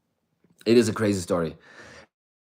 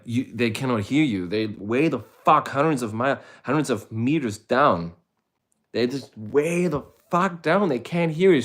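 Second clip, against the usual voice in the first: frantic explaining; 5 semitones higher, 4 dB louder than usual. Retold or imitated. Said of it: "I'm like".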